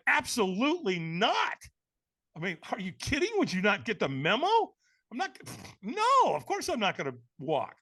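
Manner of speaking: emphatic, incredulous no; firm, indignant retold refusal; intense refusal. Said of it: "I said it with a lot of intensity".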